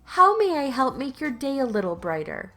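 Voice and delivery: sickly sweet. Acted. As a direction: lay on exaggerated politeness for the customer. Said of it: "the most sickly sweet voice I could muster".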